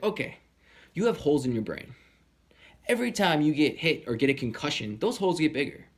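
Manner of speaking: retold curt bad news; not nice. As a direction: imitate a doctor laying it out harshly. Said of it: "So he's not nice this time".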